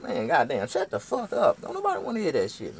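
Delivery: loud, high shut-down; high, fed-up acted holler; exasperated yell. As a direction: shout her down in a retold quarrel. Acted quarrel, yelling back.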